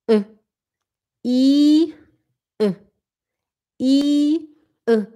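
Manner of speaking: ã and i contrasted, i clipped short; short German i demo. Shown as a demonstration. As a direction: alternate the open ã and the short i. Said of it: "tem o i curto".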